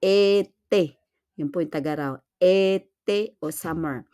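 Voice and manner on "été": "ete" as "ay-tay", louder; two separate closed syllables in "ete"; accented e. Shown as a demonstration. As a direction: model "ete" firmly for learners. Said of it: "Pag may accent po siya".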